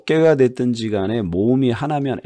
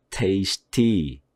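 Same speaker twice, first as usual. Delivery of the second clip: tasty with the first syllable hit; stress on tasty. Shown as a demonstration. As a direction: punch TAS in tasty. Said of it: "첫 번째 액센트를 제가 집어넣은". (tasty 앞 음절 강조)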